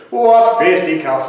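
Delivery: mildly surprised exclamation; a touch of surprise on the phrase. Shown as a demonstration. Teacher repeating the joke line for singers, mildly surprised. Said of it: "sound kind of surprised by that one".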